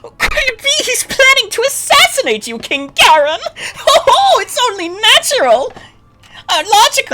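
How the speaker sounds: sly adviser cackling accusations to the king; Joker-like schemer. Acted. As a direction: play Iago as a giggling, unhinged court schemer. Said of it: "turn into the fucking Joker".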